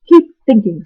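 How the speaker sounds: stern dog scold. Acted. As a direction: scold him to keep going. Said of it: "scolded the watchdog".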